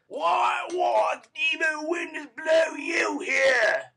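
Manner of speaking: loud, high, slow shout; Sikes's furious challenge; angry demand. Acted. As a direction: roar it at the intruders. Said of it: "he asked Fagin".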